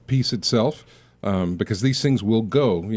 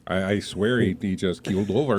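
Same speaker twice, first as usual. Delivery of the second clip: put-on Fargo accent; 3 semitones lower than usual. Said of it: "I could just keep talking like that".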